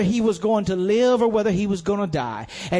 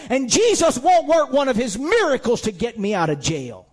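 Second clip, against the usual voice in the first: bitter attitude; 3 semitones higher than usual. Pretend. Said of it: "get an attitude".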